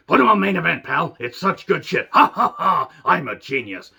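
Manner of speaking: hammed-up boss voice with a big self-satisfied laugh; puffed-up impression, laughing at his own genius; Vince McMahon. Wrestling podcaster mocking the boss who books the show, Vince voice. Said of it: "stop doing the Vince voice".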